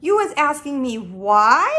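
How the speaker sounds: mildly exclaimed disbelief; a touch of outraged surprise; incredulous cry. Acted. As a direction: echo the question as if affronted. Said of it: "cried the B F G".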